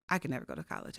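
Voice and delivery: lightly voiced cashier, giving up; resigned sigh.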